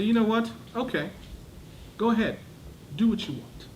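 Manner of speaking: exasperated "do what you want" meaning no; sarcastic permission. Shown as a demonstration. Fed-up parent to child, sarcastic. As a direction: give permission that clearly forbids. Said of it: "The tone conveys the opposite message".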